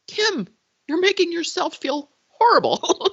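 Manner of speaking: high, sharp self-scolding; scolding herself. Retold or imitated. Scolding herself for watching her late mom's clips, high and sharp. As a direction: tell yourself off in a high voice.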